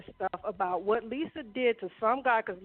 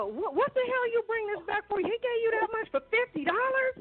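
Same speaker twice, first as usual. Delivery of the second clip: put-on high-pitched tough little kid; mock indignant child voice; gangster-talking little girl; 10 semitones higher than usual. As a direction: imitate a small girl scolding like a street hustler. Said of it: "She used the straight gangster language".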